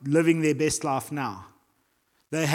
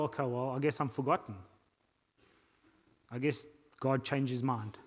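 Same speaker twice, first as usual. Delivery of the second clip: mildly dejected, softer and lower; understated acted resignation; resigned; 3 semitones lower, 7 dB quieter than usual. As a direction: give up with a quiet shrug in the voice. Acting out resigned believer giving up.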